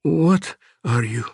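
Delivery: high, loud terrified question, slowing on the second; panicked cry. Acted. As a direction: cry out at the monster in fear. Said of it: "Gessner had screamed in panic".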